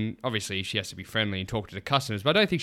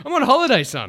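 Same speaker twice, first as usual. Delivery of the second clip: high whiny voice; 13 semitones higher, 9 dB louder than usual. Retold or imitated. Voicing the son's excuse.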